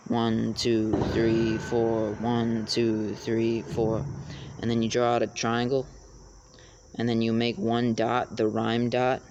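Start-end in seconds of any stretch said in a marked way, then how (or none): 0.1-4.0 counting the beat. Shown as a demonstration. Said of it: "imagine counting out the beat".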